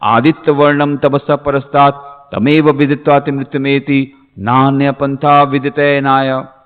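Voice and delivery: measured, chanted Sanskrit verse; Sanskrit recitation. Acted. Teacher opening his talk with a sacred verse, reciting. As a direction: intone it as sacred scripture.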